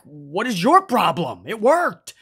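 mild imitation of an indignant yell; mock yell. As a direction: yell back in a retold argument, without full volume. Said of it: "Miz is yelling back".

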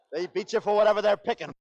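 laughing complaint. Acted.

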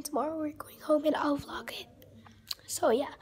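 soft, unvoiced whisper. Real, not acted. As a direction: keep it hushed, others asleep. Quiet whispered vlog update.

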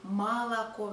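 молоко as "MA-la-ko" with an open, clear a; over-open the first vowels of молоко to a; wrong full a. Shown as a demonstration. Teacher showing what isn't said, молоко with full a's. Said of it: "neither we say".

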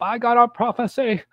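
high, slow churchy lady voice; high mock church lady; mock prophetess. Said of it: "one fat prophetess gets up".

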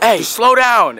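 a hint of a cop telling him off; imitating the cop. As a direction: call it out like the cop leaning over. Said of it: "she's like".

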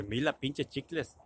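"Mira" said with an L for the R; imitating a pal who says "Mira" as "mila"; slow "Mira" with the R softened to L; L in place of R. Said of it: "no puede pronunciar la R".

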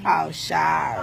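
low, slow, softened sorry; hushed apology. Real, not acted. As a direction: drop right down and apologise slowly. Apologises after being hushed.

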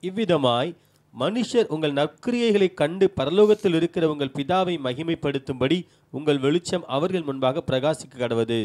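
normal talking voice

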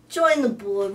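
ordinary talk

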